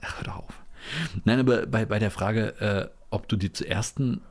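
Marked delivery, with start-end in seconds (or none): 0.0-0.6 breathy whispered protest; whispering. Real, not acted. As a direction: hush it out, embarrassed. Playful embarrassed dismissal.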